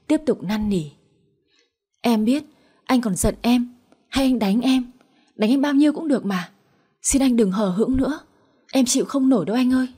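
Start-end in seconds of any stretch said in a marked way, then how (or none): 2.0-9.9 desperate pleading. Acted. Wife begs at husband's feet.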